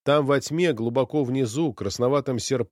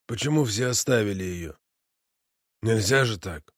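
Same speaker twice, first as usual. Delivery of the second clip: strained voice. Acted. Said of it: "сдавленным голосом".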